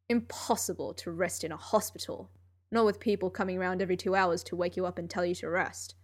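lightly voiced weary genius; Sherlock voice. Sherlock speaking in story.

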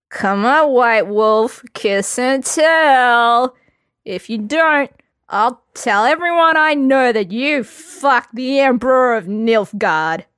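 loud, drawn-out teasing dare; mock goading. A narrator's reading. Drunk Lambert goading Geralt to kiss and tell, loud and slow. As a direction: needle him into confessing.

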